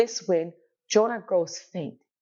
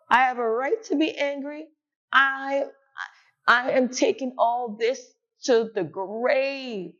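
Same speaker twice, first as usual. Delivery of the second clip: bold-faced, mocking reply; cheeky defiance. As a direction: answer back with a cheeky edge. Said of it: "he's a little cheeky".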